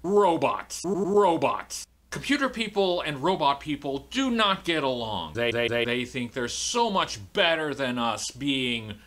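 high glitchy TV host; high, jerky stuttering TV-host voice; Max Hoodrum. Acted. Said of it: "Max Hoodrum here".

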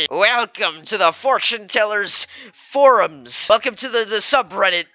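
high, put-on southern fortune teller; weird southern accent. Fortune teller welcoming visitors to her forums, odd southern accent. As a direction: stretch it out in a wobbly southern twang. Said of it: "weird-ass, uh, southern accent".

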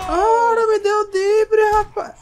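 high, loud, slow indignant yell; outraged yell. Real, not acted. Player yelling at a zombie that dodged him, high outraged yell. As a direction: bellow at the enemy that dodged.

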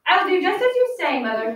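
put-on a light, eager little girl; brighter girl voice. Teacher re-reads the girl's promise.

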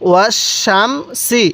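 ওয়াস শাম সি with heavy "sh" in শাম, fine "s" in সি; thick shin, thin sin. Shown as a demonstration. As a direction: recite ওয়াস শাম সি syllable by syllable, contrasting sh and s. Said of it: "কীভাবে উচ্চারণ করছি?".

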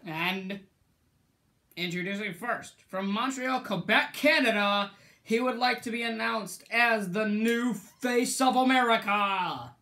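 mock ring announcer intro. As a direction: announce it to the whole arena. Imitates a wrestling ring announcer.

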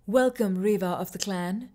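lightly voiced, smooth, ageless spirit; a touch of a melodic, sexless spirit voice. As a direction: glide through the welcome, a hint of otherworldly. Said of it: "in a smooth, melodic voice that was not quite a man's nor a woman's".

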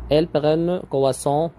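slow exercise reading. Shown as a demonstration. Teacher reading an exercise sentence aloud to students, very slow. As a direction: read the exercise sentence very slowly and clearly. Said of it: "Complète avec un article partitif".

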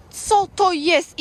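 slow, loud, drawn-out question; slow, appalled question; disgusted surprise. Real, not acted. Dog rolled in something.

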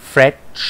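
"fresh" with a long, drawn-out SH; long SH sound. Shown as a demonstration. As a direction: stretch the SH at the end of "fresh". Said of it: "S กับ H เป็นเสียงยาวนะครับ".

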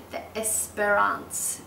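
the Esperance, slowly, in a French accent. Shown as a demonstration. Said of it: "Do you love my French accent?".

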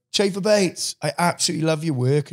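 lightly voiced fan greeting; admiring fan. Fan to actor out in public, admiring. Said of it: "someone will go".

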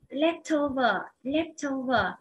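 "Leftover" stressed on LEFT, falling after; teacher's model of "Leftover", LEFT strongest; stress on first syllable. Shown as a demonstration. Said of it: "nhấn vào âm một".

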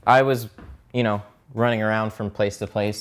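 out of breath. Real, not acted. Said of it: "I'm running out of breath".

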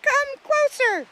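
high squeaky beetle voice, loud and drawn out; very high-pitched little creature voice; Wanda. A narrator's reading. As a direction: call slowly in a tiny, squeaky bug voice. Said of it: "Wanda looked up at Jill and said".

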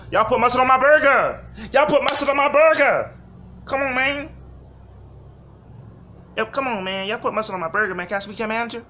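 high, loud, fast whiny customer complaint; angry customer voice. Retold or imitated. Customer yelling at the cashier about mustard, high and whiny. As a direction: rant like an entitled diner over a burger.

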